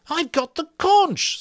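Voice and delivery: high, bleak insistence; cling to the conch, bleakly. A narrator's reading. Piggy to Jack, bleakly insisting. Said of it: "said Piggy bleakly".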